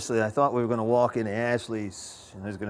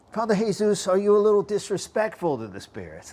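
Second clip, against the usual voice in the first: higher, louder voice of a questioning critic; imitated critic; 8 semitones higher, 5 dB louder than usual. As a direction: quote a challenger, pitched up and pushed. Voices his critics' challenge.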